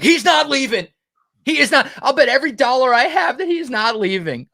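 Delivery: high, loud insistent fan protest; mock-emotional fan swearing he stays. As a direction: plead it like a die-hard fan who won't hear otherwise. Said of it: "Like, getting emotional on it".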